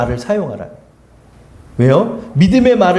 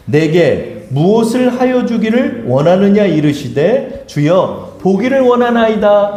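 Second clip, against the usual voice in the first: scripture reading; slower than usual. Acted. Congregation reads scripture aloud.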